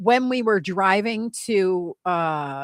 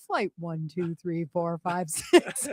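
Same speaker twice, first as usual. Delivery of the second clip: pilot voice; 3 semitones lower, 3 dB quieter, slower than usual. Pretend. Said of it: "throw in some numbers".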